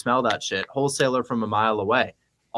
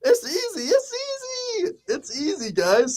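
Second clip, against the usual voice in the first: very high, slow sing-song falsetto; sing-song gloat; slower than usual. Real, not acted. Host teasing his co-host, singing it's easy in high falsetto. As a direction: croon it up high, drawn out.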